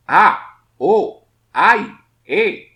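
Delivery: high, loud startled cries; exclaimed interjections. Shown as a demonstration. Teacher demonstrates interjections as high, loud cries. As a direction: blurt each interjection out. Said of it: "Al principio y al final de las interjecciones".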